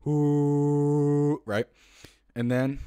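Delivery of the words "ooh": slow breathed-out ooh; exhaled monkey hoot. Shown as a demonstration. Showing viewers how to exhale the monkey tone. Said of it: "exhaling slowly while you make that tone".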